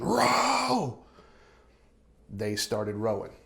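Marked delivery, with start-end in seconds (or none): 0.0-1.0 high screamed order, much higher; screamed command. Retold or imitated. Guide screaming at the rafting family, high shout. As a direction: scream it at the crew over the water. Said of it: "she screamed it again".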